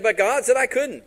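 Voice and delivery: high, loud complaint; loud protest. Retold or imitated. Tempted prophet objecting to the offer, loudly protesting. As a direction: protest it with pitch and volume up.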